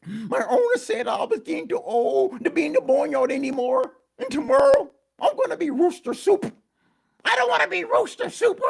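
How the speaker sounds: very high, squawky rooster voice; distressed rooster. Acted. Old rooster tells donkey he'll be soup, in a high squawk. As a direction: crow out the worry like an old rooster.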